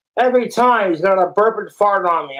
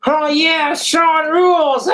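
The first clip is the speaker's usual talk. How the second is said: mock sneer; 8 semitones higher, slower than usual. Mocking voice of hater.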